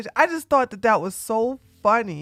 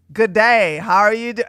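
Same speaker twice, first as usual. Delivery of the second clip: put-on Australian accent; 4 dB louder than usual. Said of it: "like an Australian accent".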